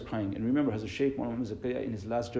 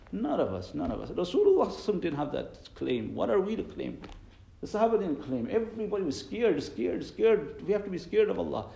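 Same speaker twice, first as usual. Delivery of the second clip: raised, higher-pitched exhortation; impassioned preaching; 8 semitones higher, 5 dB louder than usual. Real, not acted. Preacher warning the congregation to fear Allah, impassioned preaching. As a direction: preach it urgently, pitch lifted high.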